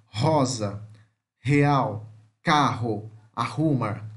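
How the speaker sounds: H-like strong R in rosa, real, carro, arrumar; spaced-out model words rosa, real, carro, arrumar, R said as H; double R demo. Shown as a demonstration. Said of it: "Que são som de dois R's".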